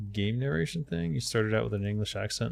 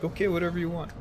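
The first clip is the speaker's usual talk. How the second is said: mock compliance; 7 semitones higher, faster than usual. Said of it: "so I'm like".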